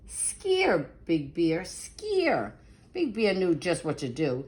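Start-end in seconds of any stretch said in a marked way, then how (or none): 0.1-2.5 spooky call. Acted. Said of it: "He thought Tree said".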